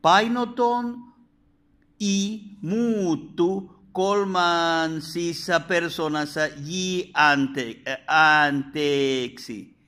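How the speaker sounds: slow, careful Greek reading. Shown as a demonstration. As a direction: spell out each Greek syllable slowly. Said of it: "donde dice". (lectura lenta del griego)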